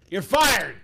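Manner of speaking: loud, high mock boss decree; mock firing. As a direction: fire her like a TV boss.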